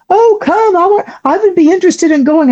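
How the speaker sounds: hammed-up imitation of a high friend; dreamy stoned plea. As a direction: beg the craft like a giddy stoner. High friend wants to go aboard.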